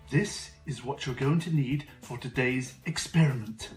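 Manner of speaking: put-on bright, eager kids show host; host a kids science show; overbright kids party host. Kids show host persona Mister Peculiar.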